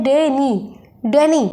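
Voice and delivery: डैनी with the डै stressed, नी let go; stress on first syllable. Shown as a demonstration. Teacher showing how to pronounce डैनी, first syllable stressed. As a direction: lean on डै in डैनी, ease off नी. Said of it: "थोड़ा जोर लगाना है".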